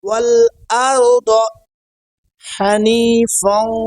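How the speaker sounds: slow recitation, drawing out হানিফাও and মুশরিকিন; correct pronunciation. Shown as a demonstration. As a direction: model ওয়া মা আনা phrase by phrase, with pauses. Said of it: "উচ্চারণগুলো সহি হয়".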